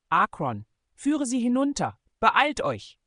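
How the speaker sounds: a leader yelling commands on the run; commanding shout. Acted. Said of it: "befahl Nick".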